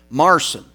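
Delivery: "Marcin" again with the German ts sound, "MAR-tseen"; German name. Shown as a demonstration. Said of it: "which is the German name".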